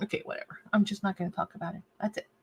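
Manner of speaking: muttered under the breath; quiet. Real, not acted. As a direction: give up, say it to yourself. Giving up on the nail.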